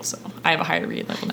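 mock smug whisper. Smug boast, whispered fast.

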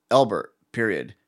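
slow, measured dictation with punctuation spoken; deliberate voicemail dictation voice; voice-to-text dictation. Shown as a demonstration. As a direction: dictate to a machine, pausing between chunks. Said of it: "I literally will talk like that".

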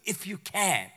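echoing if you can back with disbelief; can dropped flat as a quoted doubt; a light mock repeat of if you can. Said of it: "What do you mean".

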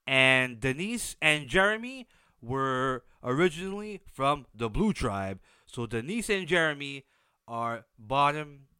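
stuffy nose, nasal sound; talking through a blocked nose. Real, not acted. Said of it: "if I sound weird, my nose is, uh, blocked".

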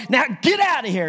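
mild mock yell at a dog; half-voiced exasperated order; retold yell. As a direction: act out shooing with a small yell. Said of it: "stomped her foot real hard and yelled".

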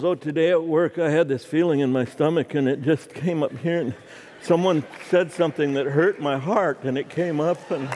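a light mocking take on a man sharing his feelings; mock emotional man. Husband mocking an emotional homecoming, lightly voiced. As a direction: gently parody a man gushing about his day. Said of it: "a man never comes home and goes".

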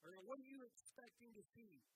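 big frustrated superhero voice; gruff demand. Retold or imitated. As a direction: bark the question at the kid. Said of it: "He goes".

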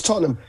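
Tottenham as an unposh "TOT-num"; not-posh pronunciation. Shown as a demonstration. British fan correcting the host, Tottenham as a local "TOT-num". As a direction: correct it to Tottenham with two short syllables. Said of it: "You can't say it posh".

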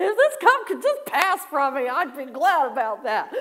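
high, loud hammed-up plea, breaking into laughter; pleading prayer. Worshipper praying to escape apologizing, loud mock-desperate pleading. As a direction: beg theatrically to be let off. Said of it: "I'm kinda like Jesus".

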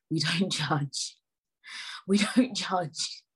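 stretched out slowly, word by word; slowing for emphasis; slow, emphatic. Shown as a demonstration. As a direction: spell out the motto slowly. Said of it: "repeats the motto three ways".

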